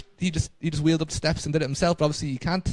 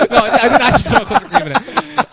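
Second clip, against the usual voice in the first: 1 laughing protest; 7 semitones higher, 8 dB louder than usual. Real, not acted. Defending herself, laughing.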